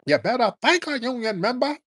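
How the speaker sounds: high-pitched mock Kamala Harris black accent; mocking imitation of a politician's black accent. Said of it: "talking with a black accent".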